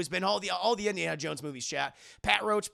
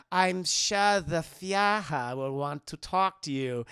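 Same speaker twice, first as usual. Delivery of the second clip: mock villain threat; much slower than usual.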